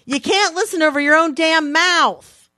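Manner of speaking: exasperated retort. Retold or imitated. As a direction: snap back at the snoring husband. Arguing with dozing husband.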